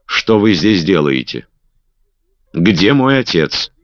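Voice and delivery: stern, slowing angry question; mild anger, slowing on the last words; angry demand. A narrator's reading. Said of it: "спросила низким гневным голосом".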